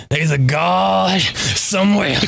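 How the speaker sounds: slow preacher quote. Retold or imitated. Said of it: "he said".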